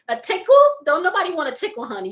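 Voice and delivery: amused incredulous repeat. Real, not acted. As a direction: scoff at the idea. Incredulous reaction to comment.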